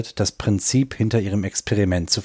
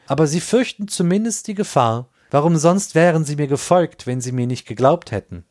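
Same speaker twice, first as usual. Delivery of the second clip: imploring; 6 semitones higher than usual. Acted. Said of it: "Beschwörend hob der Inder die Arme".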